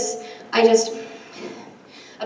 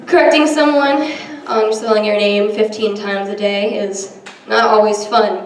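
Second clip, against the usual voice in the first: ordinary delivery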